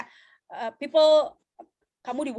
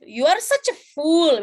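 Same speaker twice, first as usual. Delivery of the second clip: drawn-out, louder mock movie-dialogue reading; movie line; 3 semitones higher, 7 dB louder than usual. Shown as a demonstration. Teacher quoting a typical film line to the class, drawn-out mock drama. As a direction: deliver it like a hammed-up film line. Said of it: "biasanya kan gitu kan kalau di".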